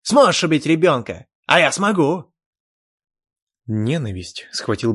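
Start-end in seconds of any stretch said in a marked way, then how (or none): 0.0-2.3 loud, higher frantic yell; wild boast. Acted. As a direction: brag it madly. Elf boasting madly.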